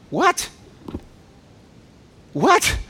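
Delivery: high, sharp rising what; incredulous what. Acted. Preacher mocking Naaman's outrage, rising what. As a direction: toss it up in disbelief.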